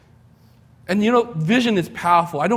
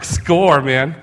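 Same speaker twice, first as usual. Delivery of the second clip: louder little victory cheer; mock cheer; 6 dB louder than usual. Young buyer cheering the free test car, excited. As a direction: celebrate the free weekend. Cheering his good luck.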